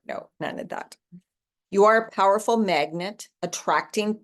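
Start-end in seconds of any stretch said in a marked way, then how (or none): 0.0-1.0 dropped to a whisper; soft whispered dismissal. Real, not acted. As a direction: wave it away under your breath. Brushing off self-deprecating replies.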